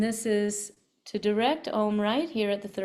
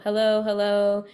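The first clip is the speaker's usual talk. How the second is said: echo hello; 6 dB louder than usual. Shown as a demonstration. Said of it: "just say hello".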